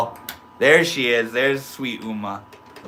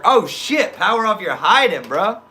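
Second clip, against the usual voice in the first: surprised; 8 semitones higher, 3 dB louder than usual. Real, not acted. Lurker suddenly shows up.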